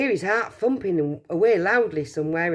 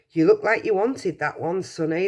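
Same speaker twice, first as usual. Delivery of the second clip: pleasant. Acted. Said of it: "the shopkeeper said pleasantly".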